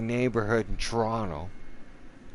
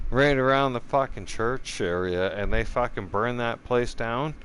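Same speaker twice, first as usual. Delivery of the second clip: furious rant; 2 semitones higher than usual. Real, not acted. Ranting at viewers about the church fire, furious. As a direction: hammer every accusation home.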